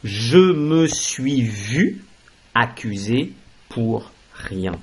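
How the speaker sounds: "je me suis vu" drawn out very slowly; slow model phrase. Shown as a demonstration. Teacher presenting the new construction, very slowly. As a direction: give the example slowly so it sinks in. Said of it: "Mais on pourra dire également".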